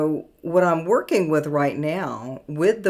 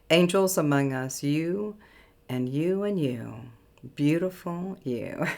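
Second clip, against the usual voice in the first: channeled message reading. Acted. Reads out channeled automatic writing.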